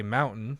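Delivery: "mountain" said without pronouncing the T; dropped T in mountain. Shown as a demonstration. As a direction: drop the T in "mountain". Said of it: "I don't pronounce a single T".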